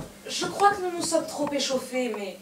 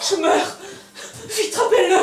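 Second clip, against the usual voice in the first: hammy stage actor; 7 semitones higher, 4 dB louder than usual. Acted. Melodramatic dying plea.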